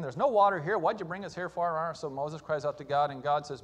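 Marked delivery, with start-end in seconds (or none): 0.0-1.9 upset complaint. Retold or imitated. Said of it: "people upset again".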